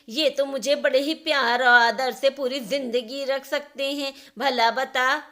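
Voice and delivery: mother rebuking her daughter for her selfish thinking; stern scolding. Acted. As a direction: shame her daughter firmly.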